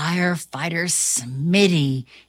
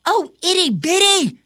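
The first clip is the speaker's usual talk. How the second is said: put-on higher, quick fond girl voice; Ava's voice; 9 semitones higher, faster than usual. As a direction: coo at the kitten. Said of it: "says Ava".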